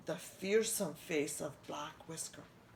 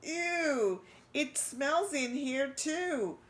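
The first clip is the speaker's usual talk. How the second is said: whispered; 8 semitones higher, 5 dB louder, slower than usual. A narrator's reading. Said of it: "Christopher whispered".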